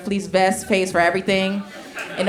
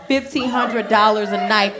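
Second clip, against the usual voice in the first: emphatic shout. Real, not acted. Emphatic repetition to crowd.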